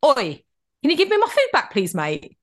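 put-on changed street accent. Demanding her food back from the man, changed street accent. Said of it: "All of a sudden my accent changed".

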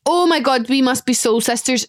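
ordinary delivery

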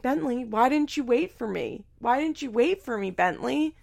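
hammed-up wounded questioning; retold whiny complaint. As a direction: imitate a dad protesting at being left out. Acting out Ryan's complaint to son.

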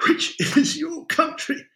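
high, wheezy translation with a stumble; wheezed, faltering words; wheezing. A narrator's reading. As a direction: struggle for breath as you get it out. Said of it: "wheezed Adam".

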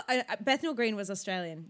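ordinary talk

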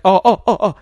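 high, loud imitation of wailing; mock sobbing. Retelling Lois upstairs grieving, mock wailing. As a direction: play Lois sobbing, hammed up. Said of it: "and she's like".

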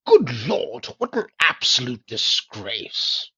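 mock outrage. Mock outrage after sneeze.

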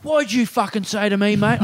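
imitated angry punter; mock aggressive challenge. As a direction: square up to someone, half in jest. Acted confrontation.

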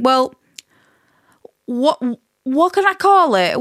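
ordinary talk

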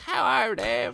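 lightly voiced old woman. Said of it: "She's like".

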